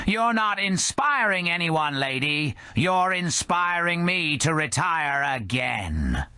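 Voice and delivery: high put-on bartender voice, exasperated; baffled old bartender. Skeleton bartender Joe brushing off the drunk lady. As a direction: push back, bewildered and weary.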